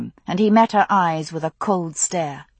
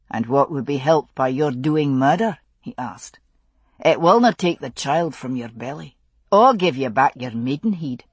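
lower, steady Highland father; Scottish father voice; 4 semitones lower than usual. Acted. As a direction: speak as a grave Scottish father. Father's voice in story.

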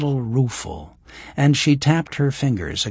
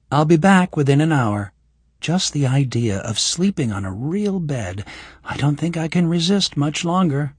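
put-on higher young woman's voice; lightly voiced young woman; Kira's voice; 6 semitones higher than usual. Voices Kira.

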